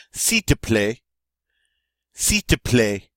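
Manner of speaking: "S'il te plaît" as "si te plaît", no L sound; L dropped. Shown as a demonstration. Teacher showing how the L gets lost in "S'il te plaît". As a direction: let the L of "S'il" vanish. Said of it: "say the L part here. That kinda gets lost".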